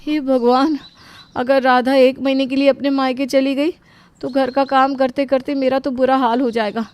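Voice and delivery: थोड़ी ऊँची, परेशान आवाज़; आने वाली मुसीबत से घबराकर बोलो; घबराई हुई. Acted. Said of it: "सुनकर वो बहुत घबरा जाती है". (घबराहट भरी आवाज़)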